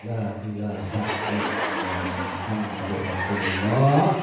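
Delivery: drawn out slowly through real laughter; laughing dhikr. Real, not acted. Preacher laughing at the congregation's answer, drawn-out exclamation. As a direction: laugh while exclaiming in disbelief.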